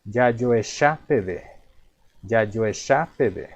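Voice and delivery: yayoeshapebe spelled out very slowly, syllable by syllable; slow teaching demo. Shown as a demonstration. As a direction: read yayoeshapebe slow for students to copy. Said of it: "La primera dice".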